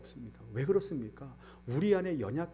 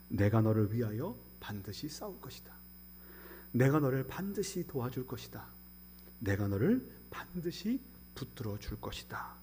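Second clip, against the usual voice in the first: softer, lower, gentle reassurance; tender promise; 3 semitones lower, 4 dB quieter than usual. Acted. Pastor softly repeating God's promise to comfort. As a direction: comfort them quietly with each line.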